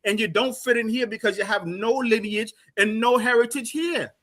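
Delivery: real exasperated scolding; indignant. Real, not acted. Heated accusation of identity crisis.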